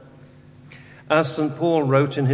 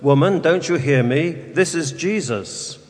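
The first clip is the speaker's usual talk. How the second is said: said aloud; 3 semitones higher than usual. Acted. Exasperated workman calls down to praying woman, said aloud. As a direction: call out to someone who is ignoring you. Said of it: "he said aloud".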